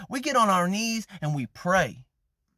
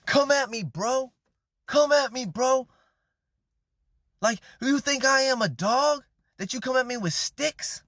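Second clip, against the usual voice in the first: cocky taunting; 5 semitones higher than usual. Retold or imitated. Goliath taunts young David, lightly voiced cocky challenge. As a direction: goad him like an overconfident giant. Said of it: "Like, taunting him".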